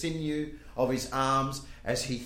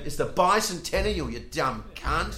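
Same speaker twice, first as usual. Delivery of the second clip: louder, higher mock berating, slowing on the insult; exasperated rebuke; 6 semitones higher, 5 dB louder than usual. Friends explaining the bicentennial to Woody, exasperated rebuke. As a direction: spell it out to an idiot, slowing at the end.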